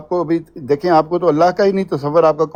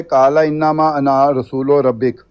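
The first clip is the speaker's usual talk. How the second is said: slow, measured Arabic recitation; تلاوت کے انداز میں آہستہ; Quran recitation; 2 semitones lower, much slower than usual. Shown as a demonstration. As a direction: recite slowly, lengthening انما. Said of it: "آیت میں نے پڑھی ہے".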